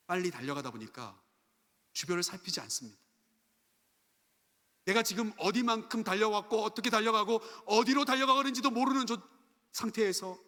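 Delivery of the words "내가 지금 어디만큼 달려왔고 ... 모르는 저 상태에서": raised-pitch, insistent sermon delivery; intensified preaching. Real, not acted. Preacher warning of running blindly through life, insistent. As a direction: press the point on the congregation.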